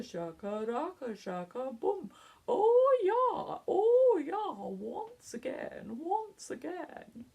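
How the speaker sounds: plummy upper-class chant, lightly done; lightly posh toff voice. Shown as a demonstration. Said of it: "now we're gonna do it in a posh voice".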